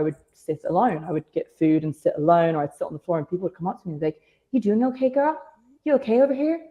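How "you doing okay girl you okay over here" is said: high, solicitous check-in; mock concerned colleague. Wrestler imitating colleagues who find her alone, mock concern. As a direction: imitate someone gently checking up.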